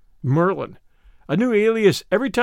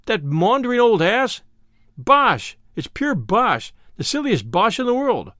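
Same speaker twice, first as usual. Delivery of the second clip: shouted scorn; 4 semitones higher than usual. Acted. Boss scoffs at Clarence's fear of Merlin, shouting. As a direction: bellow the scorn, pitch jumping high. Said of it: "and shouted".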